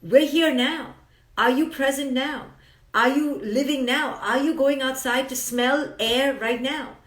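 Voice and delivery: lifted, pressing questions; rally them to be present; an eager, urgent come on; urgent rousing call. Shown as a demonstration. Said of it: "I'm saying".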